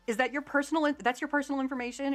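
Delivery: hammed-up mock disbelief, starting high; sarcastic. Agent ridiculing her refusal to share information, imitated sarcasm. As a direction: imitate a scornful, incredulous agent. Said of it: "hamming it up with the sarcasm".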